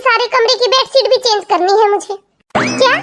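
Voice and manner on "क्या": shocked. Acted. Aunt shocked at claim.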